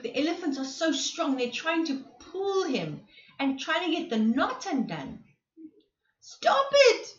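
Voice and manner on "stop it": high, loud cry of protest; a giraffe's loud pained yell. Acted. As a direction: shout at them to stop. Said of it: "yelled Cardwell".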